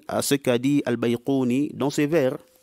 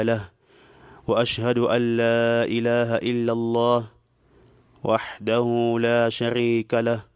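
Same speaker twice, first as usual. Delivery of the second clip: steady, level-pitched intoned invocation; formal Arabic khutbah opening; faster than usual. Real, not acted. Teacher opening the lesson with praise of Allah, formal intoning. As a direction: intone the opening formula evenly, holding long vowels.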